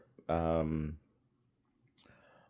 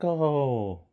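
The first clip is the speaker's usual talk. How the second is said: cheery British guy; 7 semitones higher than usual. Retold or imitated. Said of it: "And he's like".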